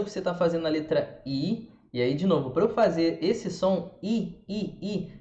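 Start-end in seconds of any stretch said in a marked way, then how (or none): 4.0-5.1 I said high with lips spread sideways; wide-mouthed I. Shown as a demonstration. Teacher showing mouth position, spread-lipped I. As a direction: separate high "i" sounds, mouth stretched wide. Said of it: "minha boca tem que abrir lo".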